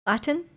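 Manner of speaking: "Latin" with a carefully sounded T; crisp T in "Latin", not swallowed; overpronounced T. Real, not acted. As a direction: say "Latin" questioningly, fully pronouncing the middle T. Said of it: "am I overpronouncing the T?".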